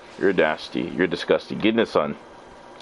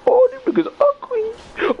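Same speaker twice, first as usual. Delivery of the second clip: sudden high yell at the ugly enemies; startled shout; 4 dB louder than usual. Real, not acted. Gamer spots ugly enemies, yells high in disgust.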